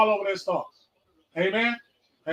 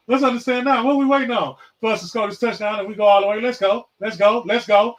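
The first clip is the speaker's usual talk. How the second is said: louder, higher rallying call, chanting Let's go; hyped up; 3 semitones higher, 4 dB louder than usual. Real, not acted. Host rallying his viewers toward the touchdown, hyped and louder. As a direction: fire up the crowd like a touchdown is coming. Hyping himself up like a game.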